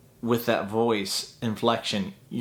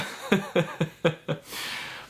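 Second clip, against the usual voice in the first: quiet breathy chuckle; a soft laugh to yourself; real laugh; 6 semitones higher, 3 dB quieter than usual. Real, not acted.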